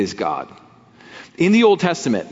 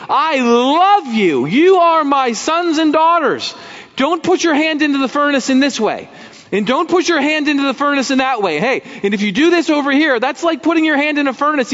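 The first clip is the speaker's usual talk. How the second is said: voicing God pleading; 12 semitones higher, 4 dB louder than usual. God warning his children, loving pleading voice.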